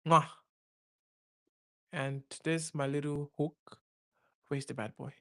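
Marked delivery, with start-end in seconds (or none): 0.1-0.3 chef's kiss. Real, not acted. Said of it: "It's just".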